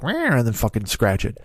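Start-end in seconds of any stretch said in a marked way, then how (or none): 0.0-0.4 a high, squeaky cat meow; mock cat meow. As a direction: mew like a cat mockingly. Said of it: "swooped down to the cat and be like".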